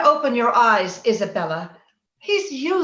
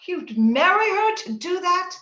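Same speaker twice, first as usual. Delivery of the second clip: a gasp, then a higher tearful question; shocked, crying; 5 semitones higher than usual. Acted. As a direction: horror breaking into tears. Shocked by Heathcliff's revenge plan.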